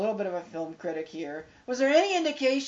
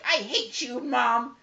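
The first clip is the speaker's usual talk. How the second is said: slightly raised retold spat; mock bickering; 4 semitones higher, slower than usual. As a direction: play a mild mother-daughter squabble. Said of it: "she's like".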